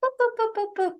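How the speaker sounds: high-pitched robot beeps. Pretend. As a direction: beep it out like a tiny robot. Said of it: "That's my robot voice".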